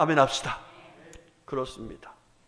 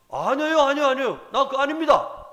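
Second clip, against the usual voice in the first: higher, louder panicked Peter denying it; frantic denial; 8 semitones higher, 7 dB louder than usual. Retold or imitated. Peter denies knowing Jesus, panicked loud protest. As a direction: deny it in a rush, voice up high. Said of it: "이렇게 부인합니다".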